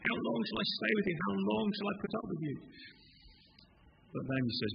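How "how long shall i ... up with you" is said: higher pleading lament; psalmist's cry. Acted. Psalmist crying out to God, pleading lament. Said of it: "the psalmists who cry out".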